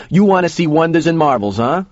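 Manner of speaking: high, leading question; Joe, goading. A narrator's reading. Joe asking the kid about wonders and marvels, goading. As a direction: dangle it before the listener, pitch held up.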